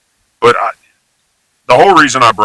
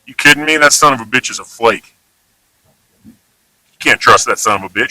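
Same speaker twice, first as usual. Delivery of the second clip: exasperated example; faster than usual. Shown as a demonstration.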